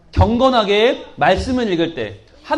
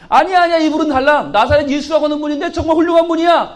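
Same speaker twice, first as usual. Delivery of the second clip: eager insisting; 4 semitones higher than usual. Acted.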